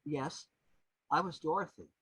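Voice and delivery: tender confiding tone, imitating the singer; gentle, dulcet, confiding. The singer leaning toward the little girl, gentle and confiding. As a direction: confide it gently, with pauses between. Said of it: "in the most gentle, dulcet, confiding tones possible".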